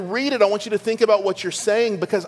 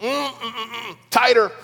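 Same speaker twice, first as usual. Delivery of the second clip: higher hummed protest, imitating an insistent child; Ella; 4 semitones higher than usual. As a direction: play a little girl demanding a harder hug. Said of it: "My daughter Ella, who's nine".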